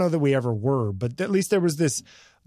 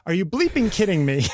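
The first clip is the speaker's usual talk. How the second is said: indignant disbelief; 5 semitones higher, 3 dB louder than usual. Retold or imitated. Retells confronting vaper, self-censored.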